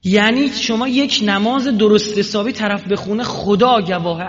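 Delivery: loud, high, slow declaration; loud solemn oath. Acted. Preacher vowing before God to the crowd, slow loud oath. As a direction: swear it slowly from the pulpit.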